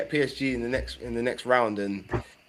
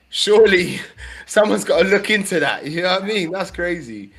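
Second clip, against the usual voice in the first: high, raised-voice disbelief; incredulous protest; 7 semitones higher, 8 dB louder than usual. Real, not acted. Football fan demanding someone investigate the draw, incredulous and high. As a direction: protest it as if it can't be chance.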